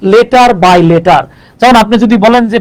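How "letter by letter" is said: letter by letter stretched out very slowly; slow emphasis. Shown as a demonstration. Teacher stressing that abbreviations are spelt out. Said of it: "সেগুলো উচ্চারণ হবে just".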